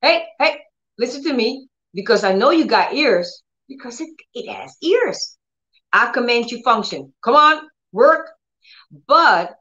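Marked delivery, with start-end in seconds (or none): 0.0-8.3 high, firm call to the legs; commanding the legs. Shown as a demonstration. Paralyzed believer ordering legs to work, firm and raised. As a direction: insist that the legs obey.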